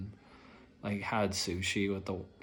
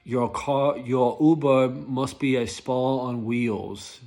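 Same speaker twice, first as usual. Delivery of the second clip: louder, mock-instructor voice; loud imitation of a rideshare expert; quoting Rideshare Professor; 3 semitones higher, 6 dB louder, slower than usual. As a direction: hype it like a YouTube driving guru. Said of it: "Rideshare Professor saying".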